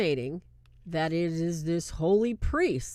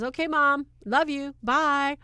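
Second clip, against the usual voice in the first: brushing off mom; 8 semitones higher, 5 dB louder than usual. Retold or imitated. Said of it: "and she says".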